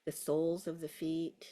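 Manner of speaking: unhurried guiding voice with long pauses; guided meditation. Real, not acted. Teacher settling a class into a body scan, guided meditation. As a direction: ease them into a body scan. Guides attention through feet and toes.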